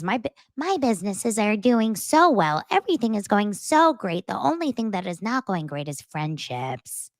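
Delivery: lightly voiced breezy Whitney; a hint of a self-satisfied brag; mock Whitney. Recapper imitating Whitney's breezy brag about business. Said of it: "Whitney basically says".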